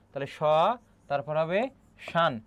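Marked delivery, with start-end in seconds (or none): 0.4-0.4 "স" said as an open sho, no m; silent m. Shown as a demonstration. Teacher splitting the word for students, "স" as sho. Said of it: "তার উচ্চারণ হবে না". 2.1-2.3 "শান" said shan, set apart by a pause; syllable shown separately. Shown as a demonstration. Teacher splitting the word for students, "শান" as shan. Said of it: "এটি হচ্ছে তোমার উচ্চারণ".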